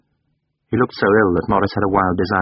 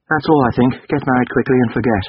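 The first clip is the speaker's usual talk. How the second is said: put-on higher, tense young man pleading to be left alone; Durham, pained; 5 semitones higher than usual. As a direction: push him away, strained and higher. Durham dismissing.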